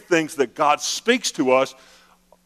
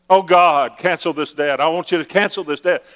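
mock pleading prayer; 3 semitones higher, 3 dB louder than usual. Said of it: "talking like somebody who's talking like this".

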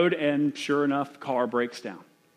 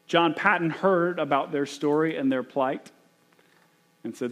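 ordinary talk, nothing marked

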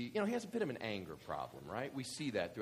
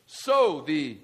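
dramatic scripture reading; 3 semitones higher, 13 dB louder than usual. Acted. Reads scripture aloud.

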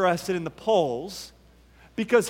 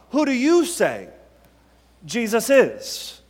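"you" lifted above the other words; stress on YOU. Shown as a demonstration. Preacher challenges listeners after the prophet view, stress on YOU. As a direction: press on YOU, pause, then land "Jesus is". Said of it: "where we want to place our emphasis".

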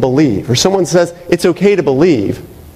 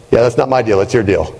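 Puddy's indifferent drone; 5 semitones lower than usual. Retold or imitated. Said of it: "he talks a lot like this".

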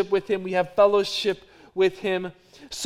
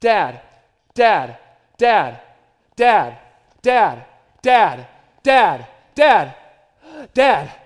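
imitating a kid calling dad over and over, louder; repeated loud child's call for dad; pestering child; 9 dB louder, much slower than usual. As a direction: nag like a child who won't stop. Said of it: "my child who comes to me and says this".

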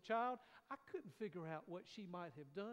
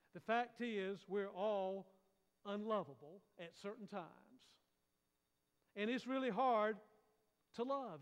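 louder, emphatic pulpit delivery; full-force preaching; 5 dB louder than usual. Acted. Preacher telling the congregation nobody is lovable, emphatic and loud. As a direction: drive each line home to the congregation.

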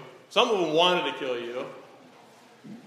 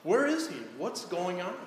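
much higher, searching cry; despairing question; 4 semitones higher than usual. Acted. Believer in despair asking where God is, high and searching. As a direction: ask it as someone lost in despair.

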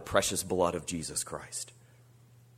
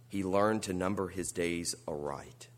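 whispering; 4 semitones lower, 7 dB quieter than usual. Acted. Solemn sermon point, whispered.

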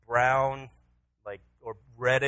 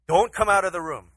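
raised, louder voice, firm bedtime order; stern dad warning; 6 semitones higher, 9 dB louder than usual. Retold or imitated. Father telling his son to stay in bed, stern. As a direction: spell out the rule for a small child.

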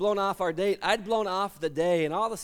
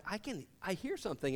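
much softer, straining to hear; hushed listening; 2 semitones higher, 9 dB quieter than usual. Retold or imitated. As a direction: whisper as if listening hard. Hearing a faint cry.

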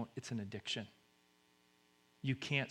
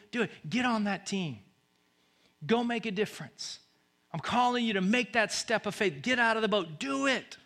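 high, urgent exhortation; rousing call; 8 semitones higher, 4 dB louder than usual. Acted. God calls you to a step of faith, rousing and urgent. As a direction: build to an emphatic, high cry.

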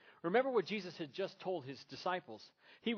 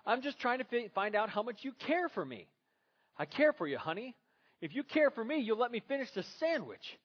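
higher, louder voices of a bickering couple; acted couple quarrel; 8 semitones higher, 4 dB louder than usual. Preacher acting out Gloria and Michael, loud and high.

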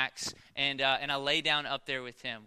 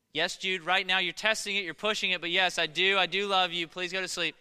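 louder, higher pleading father; exasperated dad; 4 semitones higher, 6 dB louder than usual. Retold or imitated. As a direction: reassure the child while losing patience. Worn-down father answers son at bedtime.

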